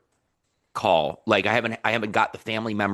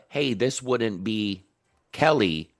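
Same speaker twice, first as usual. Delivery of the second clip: slow, even "Hey, this wouldn't be Kelly"; robotic intro; slower than usual. Retold or imitated. Coach mimics Maria's cold-call opener, robotic. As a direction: imitate a stiff scripted "Kelly", falling at the end. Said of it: "It sounds very robotic".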